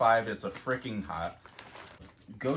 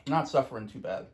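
voice cracking; 3 semitones higher, 4 dB louder than usual. Real, not acted. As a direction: voice cracking on the words. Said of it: "Your voice cracked".

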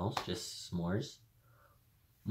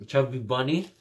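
cheeks stuffed full; 3 semitones higher, 4 dB louder than usual. Real, not acted. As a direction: mouth packed with marshmallows. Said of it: "put this in my mouth and say".

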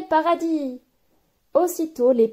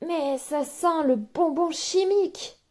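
storyteller's higher, surprised yuck; surprised disgust; 7 semitones higher, slower than usual. Acted. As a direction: recoil from the chemical smell. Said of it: "s'écrie-t-il surpris".

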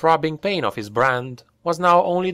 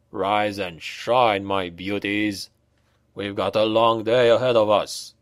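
mock cheerful wake-up call; 4 semitones lower than usual. A narrator's reading. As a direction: rouse sleepy soldiers mockingly.

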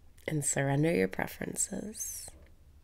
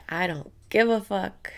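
defiant affirmation; 3 semitones higher, 4 dB louder than usual. Shown as a demonstration.

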